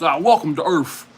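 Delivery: light mock movie-hero one-liner; punchy quoted action line, lightly imitated; Will Smith. Quoting an alien-punching film hero to viewers, light impression. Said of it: "When Will Smith, he punches".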